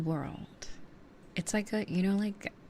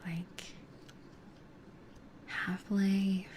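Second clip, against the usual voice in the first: whispering. Real, not acted. ASMR whisper chat.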